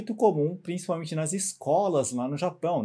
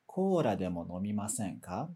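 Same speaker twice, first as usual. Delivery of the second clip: low invitation, fading through "nomimasen ka"; descending intonation; 8 semitones lower, 5 dB quieter than usual. Shown as a demonstration. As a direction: let "nomimasen ka" drop away and lose force. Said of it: "perdendo um pouquinho da força".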